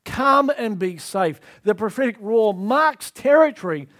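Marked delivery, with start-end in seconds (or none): 0.0-1.4 higher, louder call, then slow on come and be safe; the lion calling strays in. Acted. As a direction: call the lost home. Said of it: "and it's a call".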